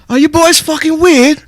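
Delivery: imitating Benji's blunt British question; British accent. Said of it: "I've taken his accent".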